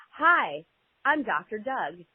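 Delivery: high, slow canned toy greeting; a doll's recorded hello, played slow; talking toy voice. Talking toy suddenly switches on.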